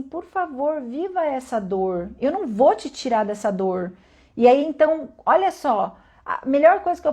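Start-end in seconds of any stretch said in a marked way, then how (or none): 0.0-3.9 acolhimento. Acted. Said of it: "falo assim".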